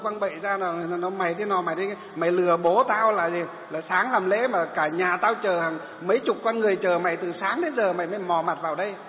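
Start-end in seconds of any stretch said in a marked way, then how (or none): 1.1-8.9 louder, mock furious tirade; hammed-up rage at the late monk; retold angry cursing. Son yelling at the monk for arriving late, imitated louder angry tirade. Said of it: "Bắt đầu nó văng tục".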